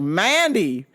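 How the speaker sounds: exaggerated drawn-out ogling; hammed-up lustful cooing; mock leering. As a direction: swoop high, then relish it. Acted leering at waitress.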